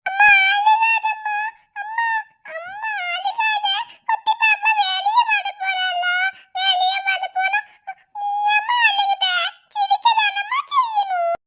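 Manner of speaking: put-on child begging crying mother to stop; comforting child. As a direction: soothe mum like a tearful little kid.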